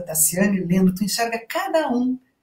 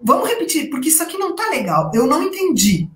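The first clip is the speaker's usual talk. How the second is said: teacher stopping the reading; 6 semitones higher than usual. Retold or imitated. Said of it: "eu digo".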